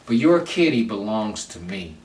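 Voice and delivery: firm, commanding claim, said steadily; with authority. Shown as a demonstration. Man telling his partner in bed, with authority. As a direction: lay claim to her like you mean it. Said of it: "and you say it with authority".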